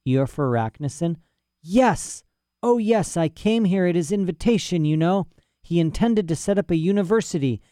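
put-on a rambling, self-important old scholar; lightly voiced old professor.

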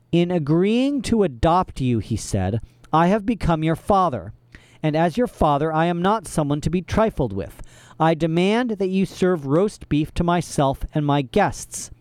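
lightly voiced menacing father figure; stern villain. Olaf asserting authority over the orphans, lightly menacing.

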